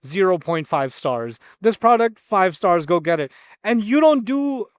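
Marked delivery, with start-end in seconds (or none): 0.1-1.4 mock reviewer. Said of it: "and he says". 1.6-3.3 mock reviewer. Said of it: "and he says".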